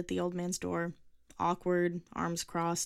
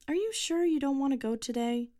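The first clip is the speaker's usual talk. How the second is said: higher, gentle mother asking; 8 semitones higher, 5 dB louder than usual. Acted. Mother voiced in story.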